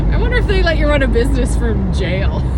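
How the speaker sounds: talking between bursts of laughter; laughing. Real, not acted. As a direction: say it through real laughter. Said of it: "I'm laughing".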